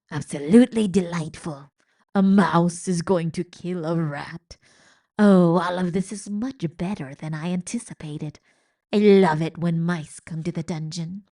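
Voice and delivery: lightly voiced sly rat, relishing it; gleeful old rat. Old rat gloating over a mouse and rat. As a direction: savour every word like a treat.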